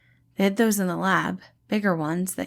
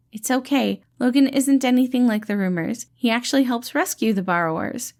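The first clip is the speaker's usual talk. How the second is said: higher, louder friendly reassuring voice; gentle dad-like rescuer, pitched up and bright; cheerful caretaker Patton; 5 semitones higher, 4 dB louder than usual. Acted. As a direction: play the kind, upbeat helper calming a scared kid. Patton explains with calming smile.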